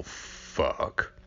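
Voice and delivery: breathy whispered fuck; whispered curse. Retold or imitated. Loomis finding Michael gone, whispered curse. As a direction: whisper it in dismay. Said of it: "Loomis like".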